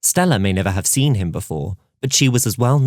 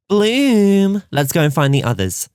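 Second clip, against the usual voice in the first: put-on high, loud affected posh accent; heightened posh accent; 11 semitones higher, 4 dB louder, slower than usual. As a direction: call out in a put-on royal accent. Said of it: "still in that strange, heightened accent".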